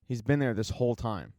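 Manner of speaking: mildly calm, low-key retold reply; understated calm delivery. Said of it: "very calmly says".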